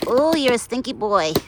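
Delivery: high, loud playful tease; teasing pet talk. Real, not acted. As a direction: tease him like a beloved pet. Teasing the deer Buck.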